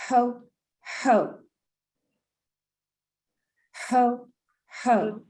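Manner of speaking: Santa ho ho ho. Shown as a demonstration. Leader demonstrates to class, belly Santa laugh. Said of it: "put your hands on your belly like Santa Claus".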